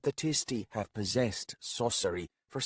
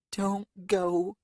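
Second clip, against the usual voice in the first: higher, urgent little plea; pleading; 12 semitones higher, 4 dB louder than usual. Acted. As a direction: beg him not to leave. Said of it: "she pleaded".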